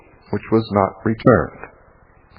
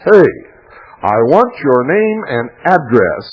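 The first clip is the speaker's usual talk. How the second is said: retold yell; 4 semitones higher, 3 dB louder than usual. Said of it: "and I yelled".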